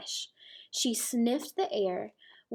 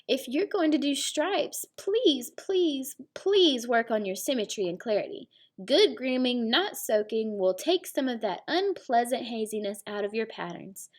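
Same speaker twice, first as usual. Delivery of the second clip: whinnying zebra. Acted. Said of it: "whinnied Zebra".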